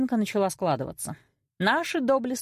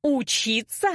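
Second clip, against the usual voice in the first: high, indignant echo; flaring up; 6 semitones higher, slower than usual. A narrator's reading. Daughter repeats mother's reproach, flaring up. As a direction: throw the word back, incensed. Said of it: "вспыхнула я, словно спичка".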